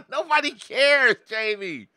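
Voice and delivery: loud, high laughing comeback; laughing retort. Real, not acted. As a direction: laugh it back at Jamie. Laughing reply to Jamie.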